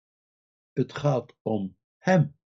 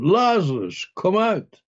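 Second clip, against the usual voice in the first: raised, higher-pitched quoted call; retold summons, pitched up rather than shouted; 6 semitones higher than usual. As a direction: call him out, moderately raised voice. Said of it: "riep hij met grote stem".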